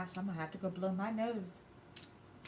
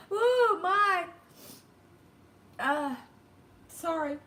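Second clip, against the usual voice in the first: tearful, higher and strained; choking through real tears; crying; 11 semitones higher, 7 dB louder, much slower than usual. Real, not acted. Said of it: "I did not mean to cry like that".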